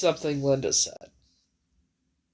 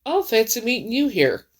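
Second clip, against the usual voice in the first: higher, coy "fancy meeting you here"; playful quip; 5 semitones higher than usual. Retold or imitated. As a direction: tease him lightly with a raised voice. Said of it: "That's what I said".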